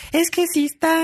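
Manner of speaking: very high, dopey agent voice; voz de tonto. Retold or imitated. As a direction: echo the silly rep, way up high. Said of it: "La voz que hace de representante". (voz de tonto muy aguda)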